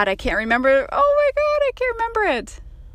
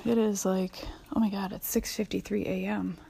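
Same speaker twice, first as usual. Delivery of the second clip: hoarse, half-whispered just-woke-up voice; raspy morning voice; 6 dB quieter than usual. Real, not acted. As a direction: talk like you just rolled out of bed, raspy. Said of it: "the raspy morning voice woman".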